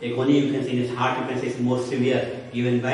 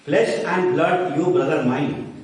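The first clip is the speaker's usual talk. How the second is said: dramatic recitation; slower than usual. Shown as a demonstration. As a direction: intone it like a stage actor. Teacher declaims Shakespeare quote.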